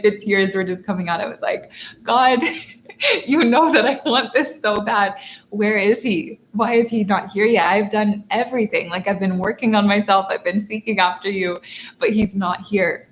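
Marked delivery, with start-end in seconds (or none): 2.0-13.1 tearful plea to God. Retold or imitated. Heartbroken girl in the back seat pleading with God, tearful. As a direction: beg God through tears and half a laugh. Retold prayer while crying.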